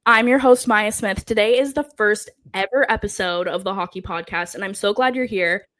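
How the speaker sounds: losing her voice, hoarse and strained; hoarse, worn-out voice pushing through. Real, not acted. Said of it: "I promise I will not always sound like this, but somehow I'm losing my voice".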